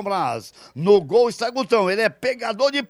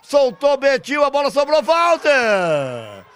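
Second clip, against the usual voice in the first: rising commentary; 3 semitones higher than usual. Real, not acted. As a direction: climb toward the goal. Building to goal.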